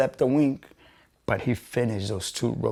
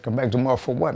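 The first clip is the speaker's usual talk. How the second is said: indignant echo rising on what; retold indignant question, a bit louder; incredulous echo; 4 dB louder, much faster than usual. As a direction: throw the words back in disbelief. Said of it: "I said".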